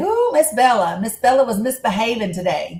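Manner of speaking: put-on Southern country accent. Imitating how the NICU team talked, imitating a country accent. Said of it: "they talk like this where I'm from".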